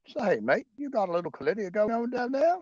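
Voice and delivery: cheeky koala teasing a mate in Aussie twang; mock Aussie koala. Koala teasing his mate, mock Australian accent.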